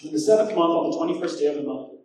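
ringing pulpit reading of the date; proclaimed scripture. Acted. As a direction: read "In the seventh month" out like a herald. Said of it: "It says this in verse one".

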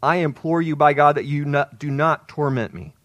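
restrained loud imploring; crying out loud. Acted. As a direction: project the plea, easing off at the end. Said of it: "he cried out with a loud voice".

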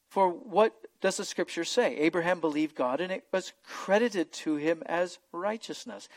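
solemn scripture read. Acted. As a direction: read the passage out to the congregation. Reads Romans four aloud.

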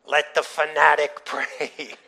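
slow, loud mocking call with a laugh; mock announcement. Relatives asked about grace at dinner, mockingly announcing him. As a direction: draw it out as a teasing proclamation.

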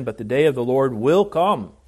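"will" stressed firmly. Shown as a demonstration. Preacher reads Peter's verse to congregation, stress on "will". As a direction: lean on the word "will" as certain. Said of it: "that's clearly the emphasis".

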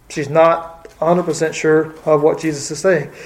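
holding back a sneeze; about to sneeze. Real, not acted. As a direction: talk through an itchy nose. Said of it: "I'm about to sneeze again".

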